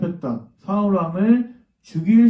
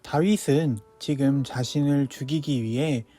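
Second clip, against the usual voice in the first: gentle, even Bible-story narration over music; storytelling to children; 3 dB quieter than usual. A narrator's reading. Sunday school teacher reading a Bible story to children.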